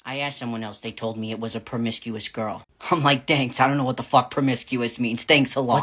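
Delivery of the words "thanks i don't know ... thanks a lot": sarcastic retort. Retold or imitated.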